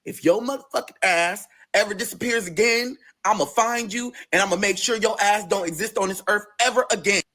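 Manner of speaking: high-pitched, insistent friend's threat; mock threat.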